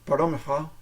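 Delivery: "mevrouw" with a guttural R from the back of the throat; throaty R. Shown as a demonstration. Teaching how to address a woman, "mevrouw" with throaty R. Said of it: "a throaty R".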